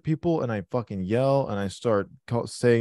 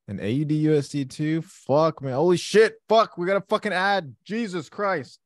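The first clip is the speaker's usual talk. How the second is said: higher, louder burst of disbelief; real excited swearing; 7 semitones higher, 4 dB louder than usual. Real, not acted. Trader watching his positions surge, excited swearing. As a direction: blurt it out, thrilled and amazed. Sudden gains on screen while trading.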